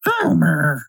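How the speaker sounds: drawn-out cartoon-wife scolding; Marge Simpson. Marge reproaching Homer, drawn-out imitation. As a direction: stretch the name in disappointed reproach. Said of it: "and her voice".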